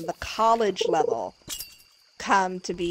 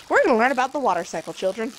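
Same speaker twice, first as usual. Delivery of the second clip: put-on fast, louder teacher-to-children voice; mock kids' teacher; 3 semitones higher, 4 dB louder, faster than usual. Mock professor stuck teaching children, quick cheery voice. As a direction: hurry through it like a bored teacher.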